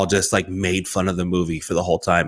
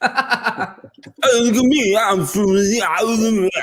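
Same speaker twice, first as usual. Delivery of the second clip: high, slow words through sticky peanut butter; mouthful of peanut butter; 11 semitones higher, slower than usual. Pretend. Joking friend shows the scene, speaking through peanut butter. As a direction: talk as if your mouth is glued with peanut butter. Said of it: "everyone has a mouthful of peanut butter".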